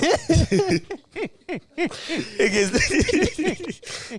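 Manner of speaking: shrill burst of laughter; high laugh. Real, not acted. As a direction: cackle helplessly.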